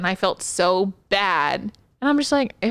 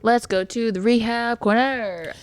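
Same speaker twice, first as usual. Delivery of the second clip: slow, drawn-out segment announcement; announcer voice; 2 semitones higher than usual. Acted. Cohost echoing the segment title as a slow announcer. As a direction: echo the segment name like a show host. Repeats segment name slowly.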